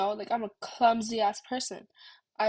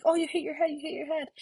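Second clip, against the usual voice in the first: higher-pitched retold alarm, lightly imitated; concerned bystander; 5 semitones higher, faster than usual. Kind man to crying skater, imitated concern. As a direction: repeat it like a fussing onlooker. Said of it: "he was like".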